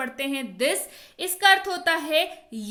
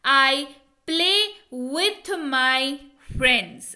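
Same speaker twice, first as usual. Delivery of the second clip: very slow, pauses between words; slow emphatic repeat; much slower than usual. Shown as a demonstration. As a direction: repeat it word by word, stressing friends. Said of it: "मैं अपने दोस्तों के साथ खेलता हूँ". (रुक-रुक कर ज़ोर देकर)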